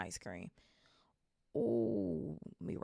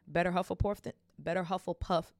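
tongue-tied stumble; 2 semitones higher, 4 dB louder than usual. Real, not acted. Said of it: "That is a tongue twister".

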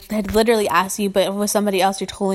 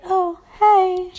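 bright mock greeting; 9 semitones higher, 4 dB louder than usual. Modelling a polite greeting.

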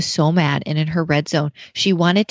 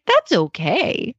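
slow, higher-pitched soothing parent; gentle reassurance; 5 semitones higher, much slower than usual. Retold or imitated. Mom retelling how she answered her mad child, slow reassurance. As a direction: reassure a child, stretching the words out.

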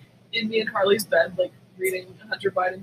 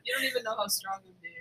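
softer and faster, a hushed joking aside; mock brave murmur; 9 dB quieter, faster than usual. Still joking with her friend, a quick hushed aside. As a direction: mutter it like a brave martyr. Joke continues, quiet and fast.

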